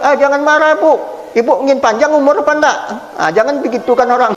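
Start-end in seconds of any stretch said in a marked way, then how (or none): 0.0-2.8 coaxing guest. Retold or imitated. Guest coaxing angry host.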